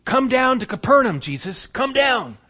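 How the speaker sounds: high, loud pleading cry to Jesus; pleading call. Acted. Desperate father calling out to Jesus, loud and high. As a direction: beg him to come down.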